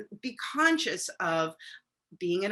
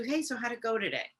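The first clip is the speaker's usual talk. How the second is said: casual; 5 dB quieter, faster than usual. Retold or imitated. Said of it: "as opposed to".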